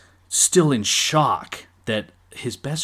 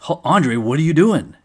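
higher and louder, stunned disbelief; shocked Hogan; 6 semitones higher, 7 dB louder than usual. Retold or imitated. Hogan asking Andre why he stands with Heenan, stunned and loud. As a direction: ask it like your friend just betrayed you. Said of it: "That's the first thing Hulk Hogan asks".

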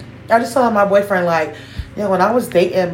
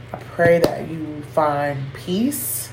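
teary-eyed; 3 semitones lower, 4 dB quieter than usual. Real, not acted. Praying for a stranger who is hurting, voice going teary. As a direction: hold back tears while praying for them. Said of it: "it's making me teary-eyed".

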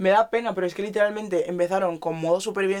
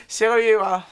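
laughing; 3 semitones higher, 4 dB louder, slower than usual. Real, not acted. Repeats joke laughing.

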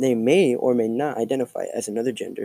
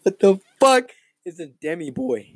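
high-pitched, breaking up with laughter; laughing disbelief; 7 semitones higher than usual. Real, not acted. Host reacts to an unknown gender term, laughing disbelief. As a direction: blurt it out through a laughing fit.

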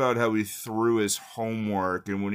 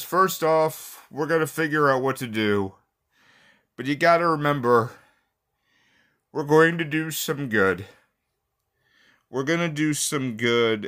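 rallying sensei speech; 5 semitones higher, 4 dB louder than usual. Retold or imitated. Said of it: "And he says".

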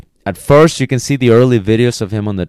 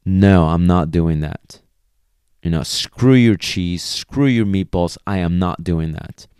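stubborn dog voice. Retold or imitated. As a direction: drag it out like a dog that won't budge. Stubborn dog refusing food.

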